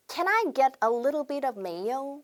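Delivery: slow, careful order phrase; slow classroom demo; slow model sentence. Shown as a demonstration. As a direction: read it word by word for repeating. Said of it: "이번에는".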